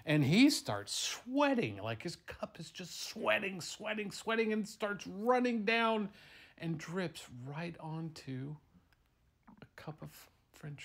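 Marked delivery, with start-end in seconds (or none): 0.0-8.6 frantic storytelling, rising high and loud; mounting panic. A narrator's reading. Father tells how the terrified milkshake sweats, mounting panic. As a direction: build to a loud, high pitch of alarm.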